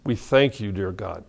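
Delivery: earnest closing prayer to God. Acted. Closes the service in prayer.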